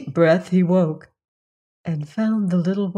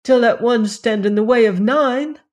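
raised, lamenting cry of self-reproach; grieving peahen crying out before her sisters, lamenting; crying out in remorse; 4 semitones higher, 4 dB louder than usual. A narrator's reading. A peahen torn by guilt cries out louder. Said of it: "she cried".

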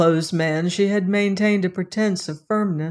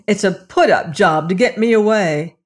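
louder, angry refusal; stormy refusal; 5 dB louder than usual. Acted. Lilas refuses the policeman, storming. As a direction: storm at him. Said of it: "stormed the girl".

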